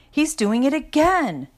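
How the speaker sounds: high-pitched, indignant tattling outburst; exclaiming. A narrator's reading. Lucinda tells on her fidgeting brother, exclaiming. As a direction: pitch it way up and complain. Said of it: "Then Lucinda exclaimed".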